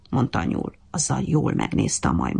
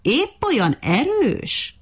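high, slow, sneering taunt; mocking; 9 semitones higher, much slower than usual. Monkey taunting the ant, high slow mockery. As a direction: drag it out high to belittle him. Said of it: "kérdezte gúnyosan".

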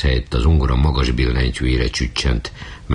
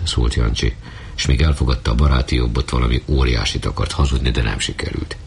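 ordinary delivery, nothing marked

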